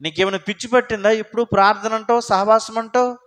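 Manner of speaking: quick teasing jab, lightly voiced; a touch of a scoffing relative; mild mocking taunt. Relative scoffing at a praying believer, quick mild mockery. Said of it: "అనేకులకు నేను ఒక వింతగా".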